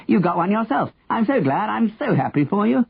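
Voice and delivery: high-pitched, gleeful congratulation; delighted cry. A narrator's reading. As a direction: congratulate him high and gladly. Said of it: "Henry cried".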